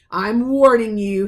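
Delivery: angry uncle warning Harry; menacing warning. Acted. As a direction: threaten him up close. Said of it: "putting his large purple face right up close".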